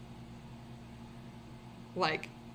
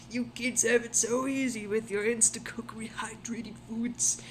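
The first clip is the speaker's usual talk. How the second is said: whispering; 2 semitones higher than usual. Acted. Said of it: "I'm in my sixties".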